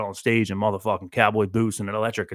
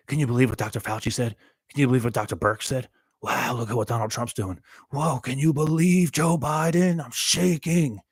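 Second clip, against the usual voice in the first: hammed-up alarm at every story; mock news junkie; 4 semitones higher than usual. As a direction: parody someone hooked on the headlines. Mocking news-obsessed people.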